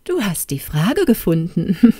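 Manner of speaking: malicious glee, ending in a chuckle; mock her with a gloating laugh. A narrator's reading. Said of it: "rief Krekelaya hämisch lachend". (hämisch lachend)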